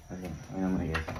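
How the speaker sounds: hushed whisper, barely voiced; whispering while hiding. Real, not acted. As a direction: drop to a secret whisper. Repeats it hushed.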